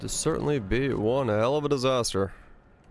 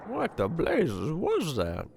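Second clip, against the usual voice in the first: game character voice; 4 semitones higher, much slower than usual. Retold or imitated. Repeating the game character's line.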